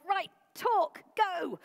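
high, loud, rushed burst after a big breath; hurried high shout. Retold or imitated. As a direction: blurt it out all in one breath. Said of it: "took a really big breath and went".

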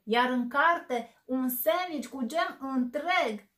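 slow, loud thundering bear. Acted. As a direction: boom each word out in outrage. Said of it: "tună el".

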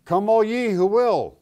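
a grand open invitation; proclaimed sign. Retold or imitated. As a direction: call it out like a welcome over a door. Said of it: "one side of the door it says".

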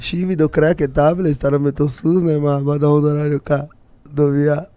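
slow reversed gibberish; slow backwards speech. Shown as a demonstration. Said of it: "Parece um árabe falando".

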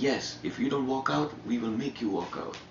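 high-pitched imitation of an agitated rant; mock furious. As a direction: reel it off like someone boiling over. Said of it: "furious, fucking boiling".

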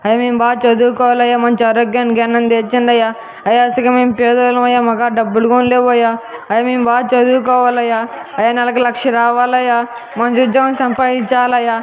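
mock-earnest prayer, each plea ending on అయ్యా; a hint of a pious plea; comic prayer. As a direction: pray like a believer asking for a salary. Jobless youth prays.

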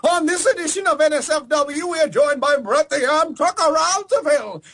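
hardboiled noir detective announcer; gumshoe voice. Acted. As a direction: teaser read as an old detective. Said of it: "do it in the gumshoe voice".

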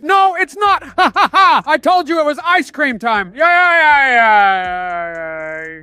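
high cackling gloat; gloating laugh. Acted. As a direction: crow about winning. Gloating over ice cream.

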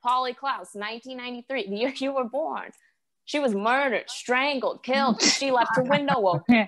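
high-pitched cautionary mother; imitating alarmed mom. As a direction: lecture as a mock-alarmed mom. Mom lectures child with cautionary tale.

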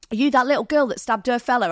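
mock Cockney question; butchered Cockney. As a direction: imitate a Cockney stranger sizing her up. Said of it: "I'm gonna butcher the Cockney, Cockney accent".

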